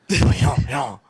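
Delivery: lightly voiced Seagal cajun accent; a hint of Seagal's bayou drawl; Steven Seagal bayou accent. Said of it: "like, the Steven Seagal".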